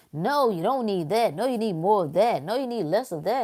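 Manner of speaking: a hint of a pushy health site; mock nagging emails. Imitating the website's emails telling readers what to do.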